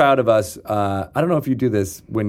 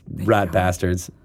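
low, slow grumble of mock outrage; drawn-out, lower mock grudge; mock indignation; 6 semitones lower, 3 dB quieter, slower than usual. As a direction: grumble it as the wronged listeners. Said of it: "be like".

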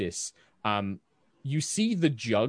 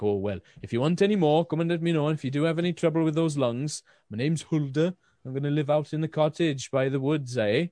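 higher-pitched attempted Welsh accent; Hulda; 4 semitones higher than usual. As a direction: offer help in a botched Welsh lilt. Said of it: "it was my attempt at Welsh".

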